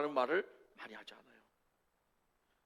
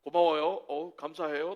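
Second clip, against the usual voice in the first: standard Seoul speech. Retold or imitated. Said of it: "서울 남자들은 표준어로 이렇게 얘기해요".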